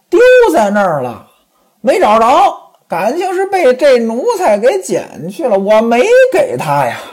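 high, tearful pleading woman; begging for mercy. Acted. Pan Jinlian begs Ximen Qing for mercy, high and tearful. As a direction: beg him to stop the whip. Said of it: "连连求饶".

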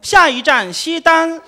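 bus announcer. Retold or imitated. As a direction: read it out like the recorded voice on a bus. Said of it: "这回有个女的说话了". (慢悠悠地模仿公交车报站)

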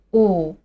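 "呜" drawn out through pursed, rounded lips; long vowel demo. Shown as a demonstration. Teacher models the sound after setting the mouth, long rounded "呜". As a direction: hold "呜" long, lips pushed forward. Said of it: "发音的时候要把声音拉长".

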